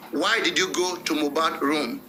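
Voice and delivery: slow, deliberate model question; teacher giving the corrected question; correct version. Shown as a demonstration. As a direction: say WHY DID YOU GO slowly and evenly. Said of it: "that is the right one".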